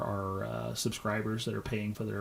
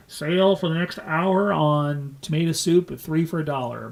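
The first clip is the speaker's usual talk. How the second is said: louder mock loudspeaker sale call; store PA announcement; 3 semitones higher, 6 dB louder than usual. Grocer announcing a sale over the microphone, mock PA voice. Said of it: "he gets on the microphone".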